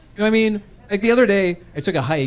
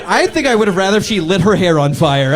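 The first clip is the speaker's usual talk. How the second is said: laughing embarrassment; 5 dB louder than usual. Real, not acted.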